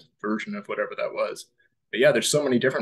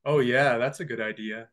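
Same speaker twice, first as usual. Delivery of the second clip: low resonant voice; 4 dB louder than usual. Shown as a demonstration. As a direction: drop into a lower throaty voice, richer and smoother. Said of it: "yeah, it was kinda like this".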